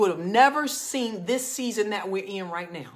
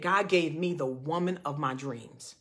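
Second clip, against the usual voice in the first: low, soft, slow retelling of a regretful man; near tears; 5 semitones lower, 4 dB quieter, slower than usual. Retold or imitated. Man confesses regret to coworker, retold as near tears. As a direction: imitate a man close to tears, subdued. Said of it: "he was basically in tears".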